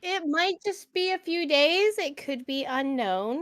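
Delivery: put-on timid, hesitant young woman; awkward girl voice. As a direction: play her shy and unsure. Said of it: "very good, like, awkward girl voice".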